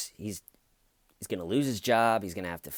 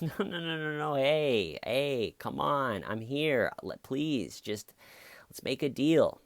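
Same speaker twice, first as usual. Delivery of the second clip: higher, whining plea; whiny drunk bargaining; 4 semitones higher than usual. Retold or imitated. Drunk driver bargaining with the police, whiny. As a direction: wheedle for a deal. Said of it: "And he goes".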